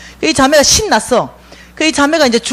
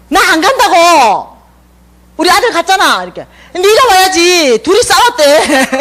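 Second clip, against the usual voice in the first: rough friend talk; 7 semitones higher, 3 dB louder than usual. Retold or imitated. Quarrel-like retort on street.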